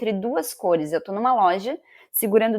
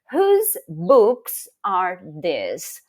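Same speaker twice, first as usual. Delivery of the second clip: very slow example; 5 dB louder, much slower than usual. Shown as a demonstration.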